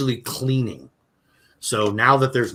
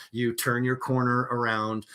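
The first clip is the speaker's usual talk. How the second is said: ordinary talk, nothing marked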